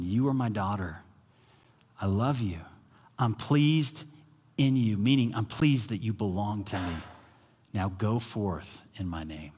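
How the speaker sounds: tender father's voice. Retold or imitated. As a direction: speak the Father's blessing gently. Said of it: "hear the voice of the Father saying".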